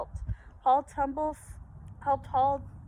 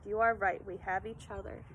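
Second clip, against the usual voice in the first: tender; 4 semitones lower, 6 dB quieter than usual. Acted. Papa answers tenderly.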